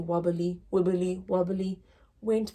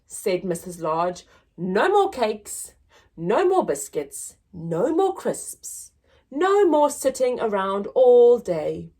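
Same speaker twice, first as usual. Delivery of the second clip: loud, firm laying down the law; bossy command; 3 semitones higher, 5 dB louder than usual. Acted. Mother sternly announcing the diet to family. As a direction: lay down the rules.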